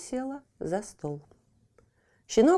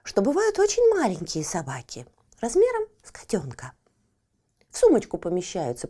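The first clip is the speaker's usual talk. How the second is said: purring cat. Acted. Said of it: "промурлыкала Фифочка".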